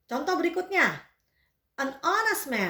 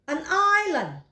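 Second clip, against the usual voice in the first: louder repeat; 4 semitones higher, 4 dB louder, slower than usual. Shown as a demonstration. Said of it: "bacanya island".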